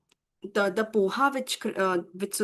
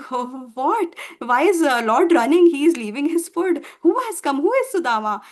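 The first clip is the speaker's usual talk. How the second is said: acted puzzled onlookers, louder questions; astonished; 3 semitones higher, 6 dB louder than usual. Wives and watchmen seeing the Lord run, astonished. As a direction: ask it in amazement, pushing the volume.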